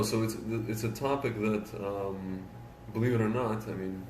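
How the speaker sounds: muffled behind a hand; talking into the hand; hand over mouth. Real, not acted. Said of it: "You're just talking into your hand".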